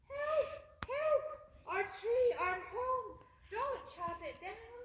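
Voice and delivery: high, panicked calls for help; panicked cry. Acted. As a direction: cry out in terror. Terrified animals cry out.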